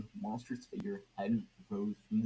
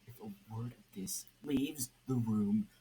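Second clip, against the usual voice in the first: menacing threat; 3 dB louder than usual. Acted. Red Hood threatens the crowd.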